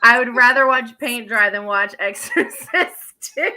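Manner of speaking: loud declaration breaking into a laugh; emphatic comic disdain. Real, not acted. Co-host trashing the sequel to friends, loud laughing disdain. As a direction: start forcefully, crack up before the title ends. Exaggerated disgust at film, laughing.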